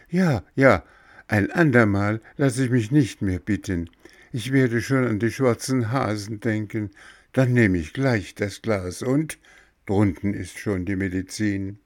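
a hint of boyish pep; eager puppet boy. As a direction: promise eagerly as a little boy. Voices recovered Bengele.

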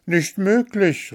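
high, drawn-out exclamation of disbelief; astonished storybook daughter; disbelieving cry. A narrator's reading. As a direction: refuse to believe it, pitched right up. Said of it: "rief Märchen".

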